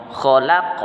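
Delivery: "Khalaq" starting with a rasped throat kh; "Khalaq" with guttural opening consonant; throaty kha. Shown as a demonstration. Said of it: "Kha berbunyi di kerongkongan".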